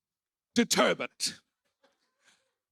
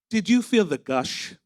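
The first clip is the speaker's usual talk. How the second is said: lightly voiced advert announcer; a hint of a TV ad voice; mock ad voiceover; 3 dB louder than usual.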